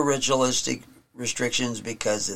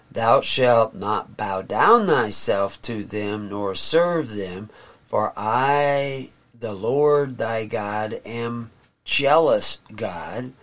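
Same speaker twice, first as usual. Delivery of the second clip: solemn scripture reading. Acted. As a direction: read it like holy writ, unhurried. Reads scripture aloud.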